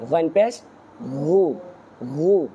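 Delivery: গু said with a thick, heavy ghayn. Shown as a demonstration. Teacher drills the letter ghayn with pesh, গু said heavy. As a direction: make the throat sound in গু full and heavy. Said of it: "মোটা".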